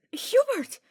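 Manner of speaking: loud high call across the hill. A narrator's reading. Ferdinand sprinting up the hill calling Hubert, shouting. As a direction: shout his name as you run up.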